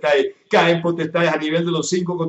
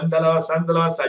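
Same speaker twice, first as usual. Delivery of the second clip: speaking in tongues; faster than usual. Real, not acted. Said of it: "está hablando en lengua".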